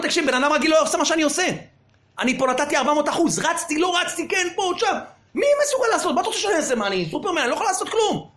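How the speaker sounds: a defendant justifying himself, exasperated; pleading defendant. Retold or imitated. Defendant pleads excuses to judge. (נאשם מתגונן בטון מתלונן)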